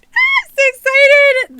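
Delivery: high, loud squeal; real excitement. Real, not acted. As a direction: shriek your joy.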